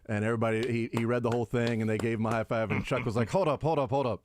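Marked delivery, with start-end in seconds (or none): 3.3-4.2 higher-pitched teasing disbelief; incredulous mock protest. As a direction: act out a scoffing challenge to the guys. Retelling a mocking studio protest.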